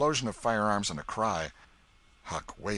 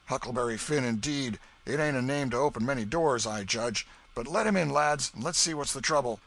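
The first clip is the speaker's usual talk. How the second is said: a lightly voiced old Welshman, louder; gruff old man; 6 semitones higher, 5 dB louder than usual. Old Welshman tells his sons to let the boy in, wary. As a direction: play the wary old farmer.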